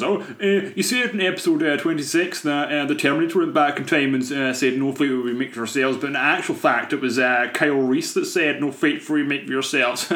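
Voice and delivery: lightly voiced pedant, starting high; pedantic stickler. Nitpicking listener correcting the podcast's film quote, lightly mocked pedant voice. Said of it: "like, a stickler for the, for, like, the, the definites and goes on and says".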